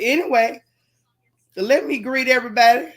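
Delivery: talking through a yawn; stretched yawn mid sentence. Real, not acted. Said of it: "excuse me for yawning".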